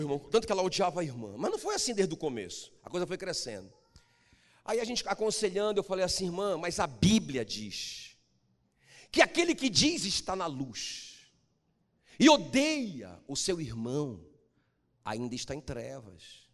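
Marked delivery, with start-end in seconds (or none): 6.3-16.5 solemn warning tone. Retold or imitated. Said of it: "Eu falei assim com esse tom".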